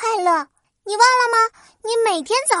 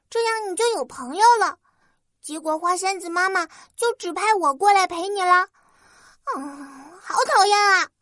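high, fast grumbling fairy; huffy little fairy complaining; tiny tinkling fairy voice; 5 semitones higher, faster than usual. Acted. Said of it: "越说越生气".

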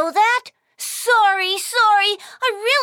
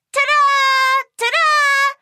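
higher, louder showman's ta-da; excited fanfare; 6 semitones higher, 4 dB louder, slower than usual. Acted. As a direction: announce him like a magic trick. Presenting friend with fanfare.

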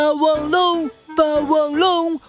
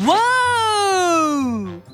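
dragon roar; 3 semitones higher than usual. Pretend. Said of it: "恶龙咆哮".

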